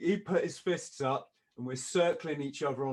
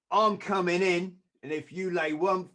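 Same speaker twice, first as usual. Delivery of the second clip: put-on crap Kiwi accent; 5 semitones higher, 6 dB louder than usual. Manager warning the doorman, threatening in crap Kiwi accent. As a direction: push in with a badly imitated Kiwi accent. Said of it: "trying to do the crap accent".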